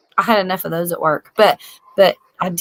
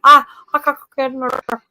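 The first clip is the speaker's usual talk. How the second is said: mocking friend; 4 semitones higher, much faster than usual. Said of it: "that's always an excuse".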